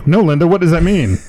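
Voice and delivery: high, mock baffled interviewer. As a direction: pretend to question her, puzzled. Mock-questioning Linda's quote.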